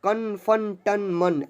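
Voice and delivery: कन, फन, टन, मन, each with a held final "n"; pronunciation drill. Shown as a demonstration. Teacher showing how an-matra words sound, evenly recited. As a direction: list कन, फन, टन, मन evenly, one by one. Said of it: "ऐसे करके अन की मात्रा".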